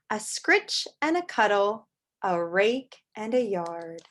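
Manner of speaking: whispered reading. Acted. Reading the book's text.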